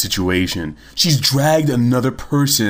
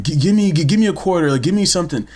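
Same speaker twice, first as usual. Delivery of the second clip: higher, stammered mock plea; lightly acted pushy child beggar; imitated begging kid; 6 semitones higher, faster than usual. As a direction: mimic a kid pestering for coins. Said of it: "this kid walks up to me".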